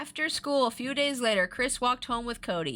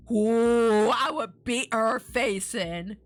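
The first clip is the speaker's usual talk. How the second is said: angry aside; 5 dB louder, much slower than usual. Real, not acted.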